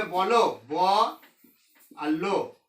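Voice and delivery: বলো broken into ব and লো; বলো spoken as two separate syllables; split into syllables. Shown as a demonstration. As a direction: pause between ব and লো. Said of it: "তখন কিন্তু দুটো দল".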